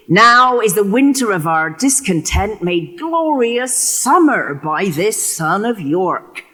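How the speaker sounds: declaimed high and slow at the end, as Richard; stage-proclaim the opening line; Shakespearean delivery. Acted. Actor giving Richard's opening to the audience, declaimed.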